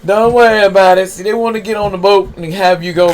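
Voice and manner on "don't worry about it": louder, firm "don't worry about it"; a loud, steady divine reassurance. Retold or imitated. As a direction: reassure them with calm authority. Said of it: "Most High said".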